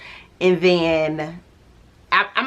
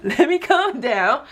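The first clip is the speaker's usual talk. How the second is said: slower, laughing, settling down; softer laughing repeat; 8 semitones higher, slower than usual. Real, not acted. Calming herself down for viewers, slow and laughing. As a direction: ease off through the laugh. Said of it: "I'm getting a little excited".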